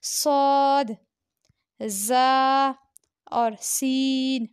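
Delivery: सौद जा सीन said loudly with a hissing whistle, सीन drawn out; the whistling letters सौद जा सीन. Shown as a demonstration. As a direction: let सौद जा सीन whistle through the teeth. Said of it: "उनकी आवाज़ में सीटी की आवाज़ आती है".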